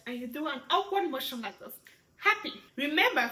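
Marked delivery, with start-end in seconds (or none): 2.2-2.5 high-pitched, cheerful demo; happy. Shown as a demonstration. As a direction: pipe it up happily. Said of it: "facial expression is very important".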